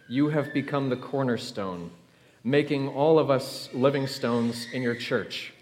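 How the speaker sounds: steady, measured prayer voice; Easter prayer. Real, not acted. Pastor praying over the congregation on Easter morning, measured and earnest. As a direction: lead the church in prayer, earnest and even.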